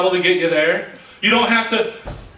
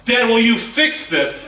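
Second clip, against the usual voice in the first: tearful plea; 3 semitones higher, slower than usual. Retold or imitated. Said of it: "she'll, she'll be like".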